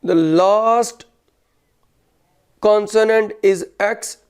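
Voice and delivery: very slow, word-by-word dictation. Real, not acted. Teacher dictating a grammar rule to students, slow dictation. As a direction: dictate it with pauses between phrases, punctuation spoken.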